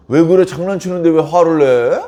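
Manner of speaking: acted indignant comeback; defensive protest. Reckless neighbour to the angry victim, defensive protest. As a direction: push back as if wrongly blamed. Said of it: "이렇게 말을 한다는 거예요".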